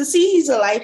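high, loud joyful announcement; beaming. A narrator's reading. Elijah giving the living child to his mother, beaming. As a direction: beam with delight, voice lifted. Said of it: "he beamed".

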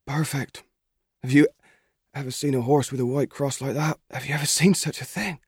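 put-on country boy marvelling, excited; young Albert, thrilled. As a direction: gush over the horse like a lad in love. Albert admires the new horse.

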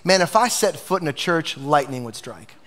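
lightly voiced skeptic, dropping low at the end; a hint of a wary friend; mock reluctant friend. Pastor imitating a friend refusing church, wry. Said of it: "They say this".

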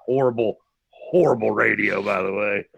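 talking around a cigarette; words slurred past a cigarette; cigarette in mouth. Real, not acted. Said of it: "It sounds like you've got a cigarette in your mouth too".

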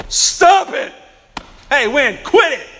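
loud, high shouted scolding; rebuking. Acted. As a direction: shout the wind down in acted exasperation. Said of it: "he rebukes the wind".

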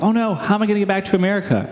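quick, mild imitation of panic; retold fretting; mock freaking out. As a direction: rush it like a lightly mocked worrier. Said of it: "they're, like, freaking out".

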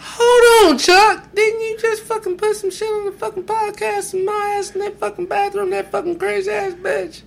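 loud, heated swearing rant; swearing tirade. Real, not acted. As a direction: yell it at him, cursing. Angry outburst at Chuck.

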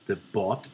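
"Bot" said the Belfast way. Shown as a demonstration. Explaining the nightclub's name, Belfast pronunciation of "Bot". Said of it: "that's how you say The Bot".

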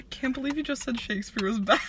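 laughing whisper. Real, not acted.

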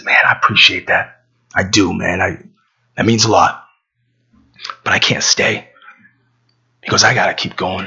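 low, understated sincerity; gentle, humble decline. Acted. Carpenter kindly declines the offer.

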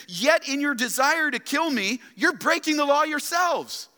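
voicing Jesus. Jesus quoted confronting leaders.

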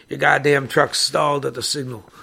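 loud, angry reported shout. Retold or imitated. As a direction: bark it at the clerk. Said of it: "I shouted".

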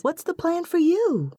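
high-pitched, eager question; exclaiming. A narrator's reading. Naomi demanding to hear her friend's plan, exclaiming. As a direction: press for the answer, pitch lifted high. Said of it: "she exclaims".

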